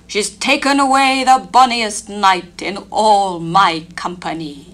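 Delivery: mild anger at the stolen knight; angry queen. Acted. Fairy Queen mourning her knight, mildly angry. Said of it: "an angry woman was she".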